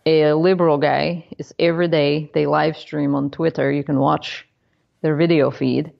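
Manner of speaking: comic put-on Russian accent; mock Russian accent. Shown as a demonstration. Host describes a colleague's show in a mock Russian accent. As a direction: keep up the fake Russian accent. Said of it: "who now talks like this".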